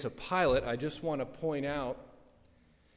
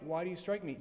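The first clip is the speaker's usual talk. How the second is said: animated challenge; 3 semitones higher, faster than usual. Acted. Preacher paraphrasing Jesus to the man who struck him, animated challenge. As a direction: put it to them as an open challenge. Retells Jesus' answer in own words.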